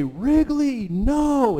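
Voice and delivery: high, loud scolding yell of the name; shouting at the dog. Retold or imitated. Owners catching Wrigley at the pizza, a high loud scolding shout. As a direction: stop the dog cold with a sharp cry.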